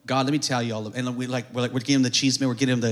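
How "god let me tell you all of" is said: low mock-prayer voice; informing God. Believer briefing God as if he doesn't know, mock prayer. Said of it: "we pray like we're telling God".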